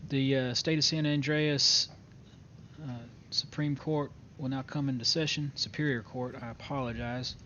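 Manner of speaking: formal courtroom announcement; court clerk. Acted. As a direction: read it like opening a court session. Opens court session formally.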